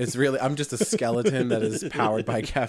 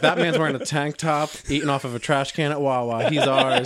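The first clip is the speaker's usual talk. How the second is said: rising to a squealing high; gleeful, picking the winner; excited; 3 semitones higher, 4 dB louder than usual. Retold or imitated. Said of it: "They're like".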